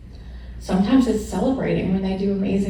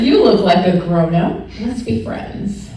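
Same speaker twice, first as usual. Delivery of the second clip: laughing retelling; 4 dB louder than usual. Retold or imitated. Retelling meeting her friend, laughing through the words. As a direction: giggle it out, then soften. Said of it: "I said".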